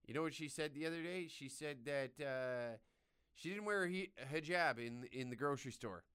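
lightly voiced smug tattletale; mock innocent accuser. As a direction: act the innocent guy. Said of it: "I'd be able to just be like".

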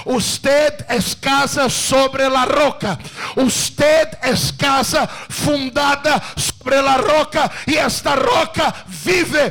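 loud, slow preacher's proclamation; full-force preaching. Acted. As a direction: hammer each word home from the pulpit.

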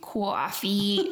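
drawn-out Northern "Coffee"; imitating a resident's Northern pronunciation; imitated Northern accent. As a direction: copy an old lady's up-north vowels. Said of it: "But she says it like that".

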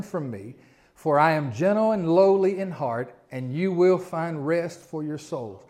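measured, slowing reading of the verses; scripture reading. Acted. Pastor reading the verses to the church, measured. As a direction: read Jesus' words as an invitation.

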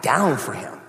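"down" leaned on and stretched; stress on DOWN. Retold or imitated. Preacher stressing total commitment, leaning on "down". Repeats phrase to drive it home.

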